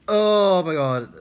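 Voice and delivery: high, loud, slow cry of feeling breaking through; overwhelmed, voice cracking up high; emotional outburst. Real, not acted. Reliving the bus ride, overwhelmed and emotional. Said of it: "that's making me emotional".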